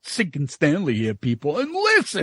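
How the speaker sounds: Tim impression. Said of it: "is he talking about our buddy Tim".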